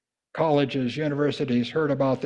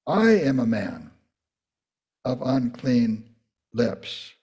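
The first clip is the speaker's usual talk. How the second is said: sober confession; 3 semitones lower than usual. Acted. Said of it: "he said".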